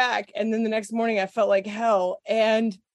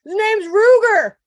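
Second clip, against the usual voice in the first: retold shout; 11 semitones higher, 10 dB louder than usual. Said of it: "And he goes".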